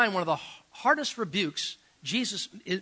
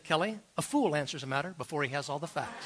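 amused quoting. Retold or imitated. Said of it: "looked at Kelly and said".

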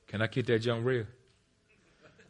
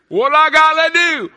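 higher and louder still on "What I gotta do?", pushing "gotta"; louder plea; 15 dB louder than usual. Acted. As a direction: cry it out harder the second time. Repeated plea, building.

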